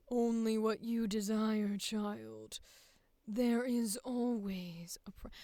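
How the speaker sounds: put-on a traditional, unforced take on "Only what you desire, child"; traditional villain read. Shown as a demonstration. Actor trying the traditional villain take. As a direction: play it straight, no put-on voice. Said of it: "We go traditional".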